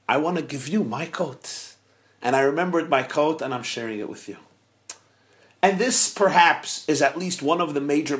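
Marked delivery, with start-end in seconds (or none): 0.1-4.4 tender. Acted. Rabbi's inner tender feeling.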